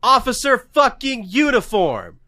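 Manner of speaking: high-pitched, incredulous comic outburst; exasperated rant. Real, not acted. Mock exasperated rant about witness.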